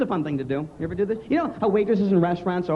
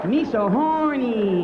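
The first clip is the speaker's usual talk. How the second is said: mock sleazy voice; 4 semitones higher, much slower than usual. Mock morning-after creature face.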